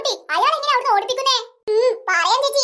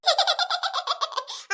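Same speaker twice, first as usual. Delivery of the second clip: soft knowing giggle; 2 semitones higher, 5 dB quieter than usual. Acted. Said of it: "എന്താ നിനക്ക് ഇത്തിരി ചിരി കൂടുതല്".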